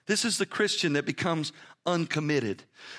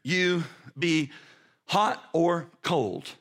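voicing God; 4 semitones lower than usual. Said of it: "And so he says".

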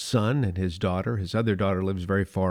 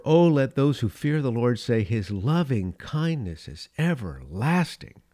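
reverent scripture reading, slowing at the end; 3 semitones higher than usual. Acted. Reads Psalm verse four.

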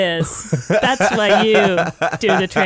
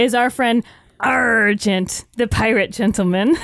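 grand introduction. Shown as a demonstration. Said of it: "let me try that again".

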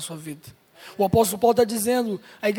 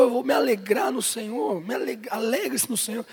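mock reluctant churchgoer; 4 dB quieter than usual. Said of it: "Aí você fala, pastor".

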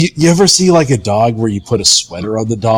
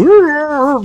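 deer noise. Acted. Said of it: "making deer noises that I can't do".

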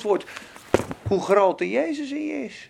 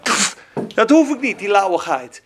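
scornful scoff with a pff; loud scornful pff; dismissive God; 3 semitones lower, 4 dB louder than usual. Acted. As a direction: wave it away in disdain. God's reaction to lukewarmness.

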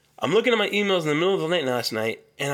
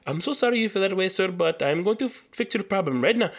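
apologetic agent; 4 semitones higher than usual. Retold or imitated. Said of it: "they'll be like".

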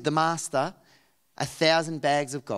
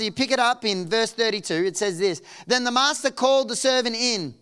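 raised, higher preaching voice; 7 semitones higher, 5 dB louder than usual. Acted. Preacher telling the parable to a congregation, preaching. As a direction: drive the Bible story forward with energy.

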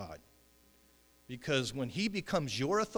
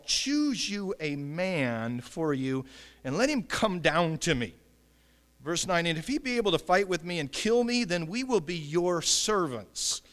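loud, emphatic scripture reading; crying out a challenge; 6 dB louder than usual. Acted. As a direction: call out the challenge to an army. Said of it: "he stood and he cried".

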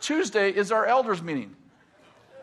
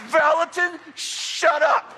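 high, loud snap that drops to a whisper; exasperated Tom; 10 semitones higher, 3 dB louder, slower than usual. Retold or imitated. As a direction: cut him off, then whisper shut up. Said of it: "And he goes".

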